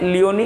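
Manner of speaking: लियोनी with the final "nee" sounded; correct reading. Shown as a demonstration. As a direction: say लियोनी ending in ee. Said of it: "क्या पढ़ते हैं?". (लियोनी, आख़िर में ई के साथ)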